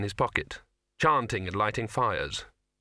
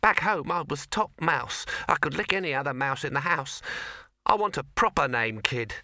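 a small mouse playing the big shot; tough mouse; 5 semitones higher than usual. Mouse boasting.

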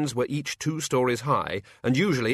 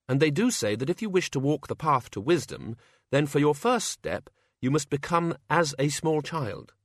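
Susan explaining; 4 semitones higher than usual. Acted. Susan voiced beside narration.

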